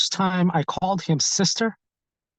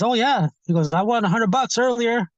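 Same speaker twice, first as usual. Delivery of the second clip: lightly raised, mock feminine quote; a hint of his high voice; retelling him with a touch of a higher voice; imitating his high voice; 5 semitones higher than usual. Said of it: "He talked like this in a really high voice".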